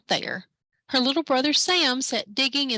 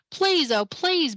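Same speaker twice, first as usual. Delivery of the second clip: higher, pleading please; begging; 6 semitones higher, slower than usual. Acted. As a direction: beg him with rising desperation. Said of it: "begged Stella".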